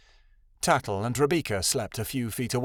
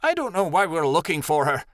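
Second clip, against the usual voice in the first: mildly resentful, higher voice; grumbling; 5 semitones higher than usual. A narrator's reading. Rebecca resents looking for her friend, grumbling. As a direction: grumble about a pointless task. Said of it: "Rebecca grumbled".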